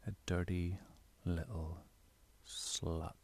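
"dirty", "little" and "slut" each set apart by pauses; emphatic word stress. Shown as a demonstration. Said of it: "you need to emphasize certain words".

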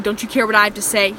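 rising annoyance, stress on care; irritated. Acted. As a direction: push the question like a complaint. Captor scolding his captive.

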